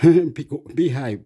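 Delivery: laughing scold. Real, not acted. Laughing, telling someone to behave.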